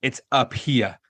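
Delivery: low, lightly voiced villain; a hint of a menacing old man; gruff villain. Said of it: "turns around and goes".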